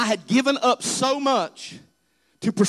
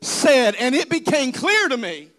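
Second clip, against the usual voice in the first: raised retort; 5 semitones higher than usual. Retold or imitated. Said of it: "And I said".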